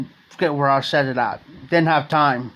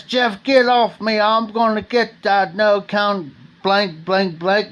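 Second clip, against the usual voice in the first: put-on higher, slower, a fired-up drunk snapping to be let go; angry retold yell; 5 semitones higher, slower than usual. Drunk Donald to Jeff holding him back, a higher, slower, mildly heated voice. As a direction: voice a bar brawler straining to get at the other guy.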